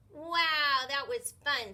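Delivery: loud, puffing delight after play; out of breath from the game; breathless. Acted. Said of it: "said the new kid breathlessly".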